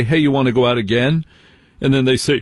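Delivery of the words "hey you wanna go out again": quick throwaway invite; wrong way: quick throwaway invite; lazy casual ask. Shown as a demonstration. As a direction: toss it off fast and vague. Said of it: "But don't just say".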